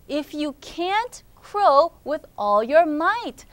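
slow, deliberate reading up to "all your might"; slow storybook challenge. Acted. Friend challenges rooster to crow, slow and measured. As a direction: spell out the challenge word by word. Reads the line slowly, evenly.

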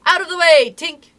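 loud, high command; shouted warning. A narrator's reading. Toodles aiming past Tink, urgent shout. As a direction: shout to clear the way. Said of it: "he shouted".

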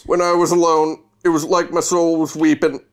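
depressed vampire voice. Acted. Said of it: "how depressed he was".

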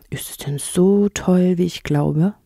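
etwas gedehnt, schüchtern gefragt. Acted. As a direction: frag zaghaft als Maulwurf. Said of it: "fragte der Maulwurf schüchtern". (schüchtern fragend)

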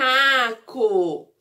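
"macaco" slowly as ma, ca, co; split into syllables. Shown as a demonstration. Teacher naming the little animal, "macaco" sounded out syllable by syllable. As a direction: separate and stretch each syllable of "macaco". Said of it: "formou a palavrinha".

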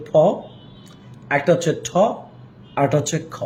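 ফ, ঠ, খ each released with a puff of air; aspirated sounds. Shown as a demonstration. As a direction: put breath pressure behind ফ, ঠ and খ. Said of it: "এটা aspirated sounds". (ফ, ঠ, খ জোরে হাওয়া ছেড়ে, মহাপ্রাণ উচ্চারণে)

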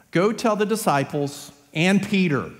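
"and Peter" set apart and punched; stress on Peter. Acted. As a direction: deliver a summons, leaning on "and Peter". Young man's message at the tomb.

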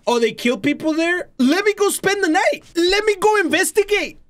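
high, sing-song mock eagerness; mock brave volunteer. Gamer mocking horror heroes, in a high eager voice. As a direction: play the fool who wants to go in. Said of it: "Said no Mexican ever".

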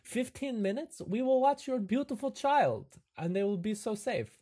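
high, coaxing host voice; hammed-up reassurance in character; eager camp host. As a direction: rattle off the options reassuringly.

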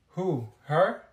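usual speaking voice

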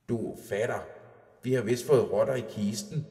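a lightly voiced troll wife, alarmed; lightly voiced old troll wife calling her husband. Troll wife speaks in story.

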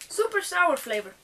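mocking the label, sarcastic. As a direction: scoff at "Super sour flavor" like a lie. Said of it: "You have lied to me, package".

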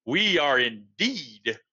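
slow, lightly voiced Queen; a hint of a stately monarch. A narrator's reading. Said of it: "the Queen's voice said".

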